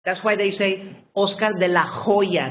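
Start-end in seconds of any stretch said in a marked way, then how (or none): 1.1-2.5 OSCAR DE LA HOYA with an audible, throaty H in HOYA; pronounced H. Shown as a demonstration. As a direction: sound the H in HOYA clearly, Spanish style. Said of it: "they pronounce the H".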